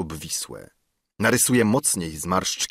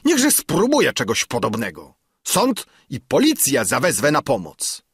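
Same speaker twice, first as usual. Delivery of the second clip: much higher and louder, fearing ruin; the councillor dreading ruin, much higher and panicky; panicked councillor; 6 semitones higher, 4 dB louder than usual. Acted. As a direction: wail about bankruptcy in rising panic. Councillor threatens police.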